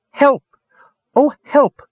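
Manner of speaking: high, loud piping cry for help; tiny bird's cry. A narrator's reading. The wren on Sturm's wrist calls out, high piping cry. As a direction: pipe it out like a little wren, shrill and urgent.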